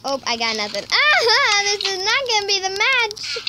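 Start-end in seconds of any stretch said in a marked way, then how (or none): 1.2-3.4 laughing, higher. Real, not acted. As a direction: laugh through the line. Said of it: "I lied, okay?".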